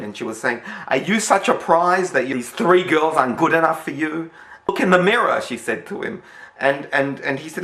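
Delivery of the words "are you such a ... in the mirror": mild mock harangue, pitched higher and louder; harassing nag. Landlady harassing John over the phone, mock indignant. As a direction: badger him down the phone. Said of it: "she was harassing him".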